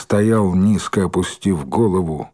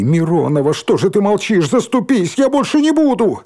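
much higher, desperate plea; begging; 9 semitones higher, 3 dB louder than usual. Acted. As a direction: beg her on your knees. Валька умоляет Миронову на коленях. (мольба на коленях)

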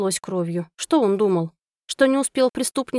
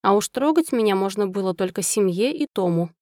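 ordinary delivery

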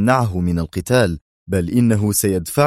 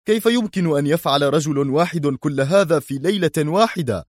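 higher, rising disbelief and rage; angry outburst; 7 semitones higher than usual. Acted. Yuri reading the night's losses, raging in disbelief. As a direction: throw the losses in their faces. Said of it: "وحملت لهجته كل غضب الدنيا".

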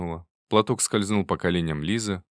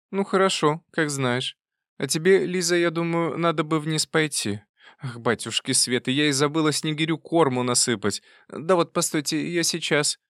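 put-on bustling old aunt; 8 semitones higher than usual. A narrator's reading. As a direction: burst in relieved, old-lady voice.

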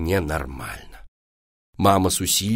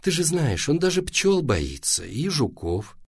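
higher, gentle explanation; soothing; 6 semitones higher than usual. A narrator's reading. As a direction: reassure the upset child. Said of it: "стала успокаивать сына мама".

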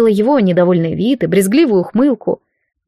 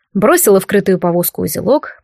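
ordinary delivery, nothing marked

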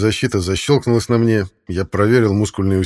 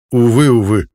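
calm emotionless voice; 3 semitones higher, 6 dB louder than usual. A narrator's reading. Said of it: "Голос Геррата звучал спокойно, без эмоций".

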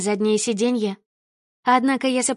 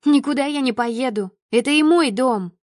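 a slightly raised, stubborn refusal; 2 semitones higher than usual. Acted. Daughter refusing her father, mildly raised voice. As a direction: stand your ground, voice up a little. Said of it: "Повысила голос".

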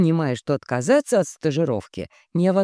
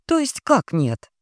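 slow, stunned and higher; taken aback; 7 semitones higher than usual. A narrator's reading. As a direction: caught off guard, slowly. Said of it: "опешила я". (опешив)

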